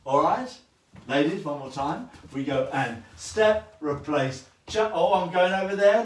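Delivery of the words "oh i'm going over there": lightly voiced follower, higher; airy mock lady voice; lady partner's thought. Teacher voicing the follower while dancing, lightly. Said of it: "understands as a lady that I'm going".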